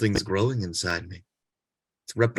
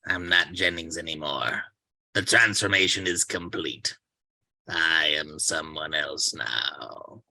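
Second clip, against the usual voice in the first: lower, slow robot-like monotone; mechanical voice; 5 semitones lower than usual. Acted. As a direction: speak like a machine taking over. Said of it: "in a strange mechanical voice".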